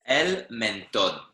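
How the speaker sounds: el mentón, slow, with TÓN stressed; stress on final syllable. Shown as a demonstration. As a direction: slowly model el mentón, weight on TÓN. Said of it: "you've got an accent on the O".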